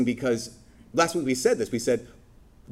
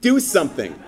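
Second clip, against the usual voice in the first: punchy, louder at the end; blunt rebuke; 4 dB louder than usual. Retold or imitated. James scolding lazy believers, blunt and rising louder. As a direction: cut them down bluntly. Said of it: "James is like".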